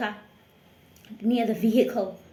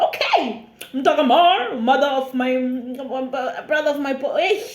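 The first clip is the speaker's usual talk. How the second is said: nervous laughing. Retold or imitated. Nervous laughing made-up family talk.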